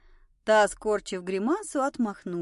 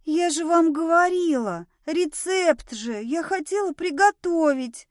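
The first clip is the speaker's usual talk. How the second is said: high, loud wounded protest; indignant; 7 semitones higher, 4 dB louder than usual. A narrator's reading. Cook whose recipe ingredients were put back, indignant. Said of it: "возмутилась Мила".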